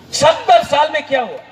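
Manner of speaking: rally shout. Real, not acted. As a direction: demand the answer from the crowd. Rally speech, rhetorical question. (भीड़ से ऊँची आवाज़ में सवाल)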